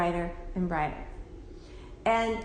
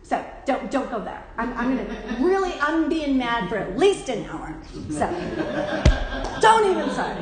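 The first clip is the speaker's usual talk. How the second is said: mock stubborn anger; 4 dB louder than usual. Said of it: "I'll even say".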